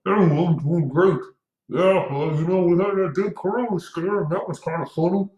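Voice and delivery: high-pitched mocking voice of a mask wearer; muffled mask talk. Mocking mask wearers chatting with a friend, high muffled voice. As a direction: parody someone chatting through a muzzle. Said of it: "talking like this to your friend".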